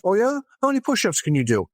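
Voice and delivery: high teasing challenge; lightly voiced priest daring the kids; a hint of a cocky priest; playful challenge.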